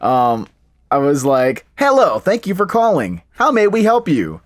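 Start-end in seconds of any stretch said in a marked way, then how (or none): 1.8-4.3 mechanical scripted delivery. Retelling how they once answered the phone, sounding like a robot. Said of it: "thinking that I was a robot".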